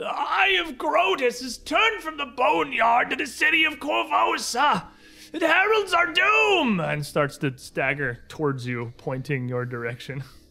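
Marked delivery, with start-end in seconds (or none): 0.0-6.8 very high, loud calling-out cry. Voicing a staggering old man who calls out to approaching players: calling out a prophecy. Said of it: "Calls out".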